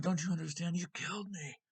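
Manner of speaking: loud, high-pitched retold outcry; anguished accusation. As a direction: cry it out as an acted desperate reproach. Retelling an anguished accusation at climax.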